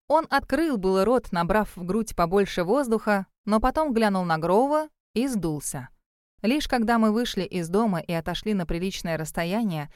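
ordinary delivery, nothing marked

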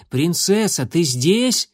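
calling out. Acted. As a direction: call her name over the fence. Calling sister in the garden.

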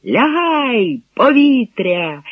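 high, drawn-out cry of alarm; shouted warning. A narrator's reading. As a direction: call out an air-raid warning, stretching the words. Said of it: "крикнув".

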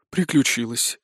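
said on a resigned sigh; a touch of weary resignation. Acted. Aristocrat confirms the poor lord's misfortune, sighing. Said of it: "вздохнул фон Бакке".

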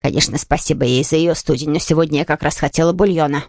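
a touch of peevish ingratitude; irritable invalid. Acted. Invalid turning down the aunt's gift, peevish.

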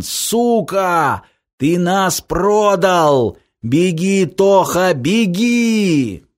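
high, drawn-out cries; desperate yelling. Acted. Semyon cursing traitor and warning brother, desperate yelling. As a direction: cry out in outrage, then urgency.

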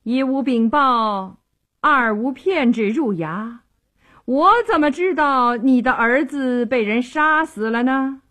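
lightly voiced official, point by point; a hint of rhetorical challenge; questioning magistrate. A narrator's reading. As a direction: press the argument home, pitch held up. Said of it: "他接着又问".

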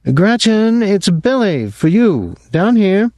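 calling upstairs. A narrator's reading. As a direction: call out to someone upstairs. Jean calls up the stairs.

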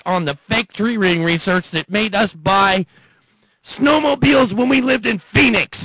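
rising disbelieving rant; exasperated rising rant. Real, not acted. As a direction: build to an incredulous near-yell at Phoenix.

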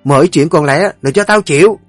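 loud, high, fast tirade of commands; mother-in-law raging at the servants, shouting orders; furious matriarch. Acted. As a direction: bark orders to have the maid beaten.

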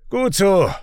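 high-pitched approving call. A narrator's reading. Raik leaning over the wall to Finn, calling out. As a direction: call down to someone below. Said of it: "ruft Raik über den Wall gebeugt".

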